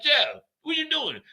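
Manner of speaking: high, slow call down the stairwell. Retold or imitated. Coworkers calling to Jeff by the elevator, high drawn call. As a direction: stretch his name out down the stairs.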